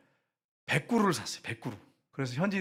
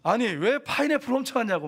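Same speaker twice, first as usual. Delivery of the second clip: raised angry scolding, higher and louder; 7 semitones higher, 5 dB louder than usual. Retold or imitated. Missionary scolding locals over stolen pineapples, angry. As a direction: tell them off for stealing. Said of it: "막 이렇게 야단을 막 쳤어요".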